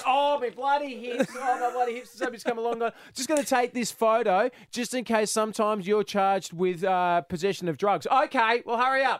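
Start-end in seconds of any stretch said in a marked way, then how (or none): 0.1-2.8 pained groaning grumble. Imagining Mum thrashing in the pool with bad hips: imitating Mum complaining of pain. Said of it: "just going".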